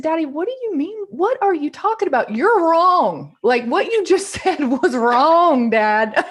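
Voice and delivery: high, loud laughing objection to dad; mock protest, giggling through it. Retold arguing with her dad.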